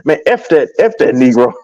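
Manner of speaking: mock him brushing off the facts; Elder. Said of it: "you said it perfectly though".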